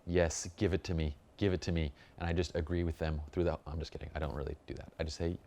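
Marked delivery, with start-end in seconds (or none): 0.1-1.9 mock soaking up praise. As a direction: savour the praise, hammed-up. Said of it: "soak it up like a sponge".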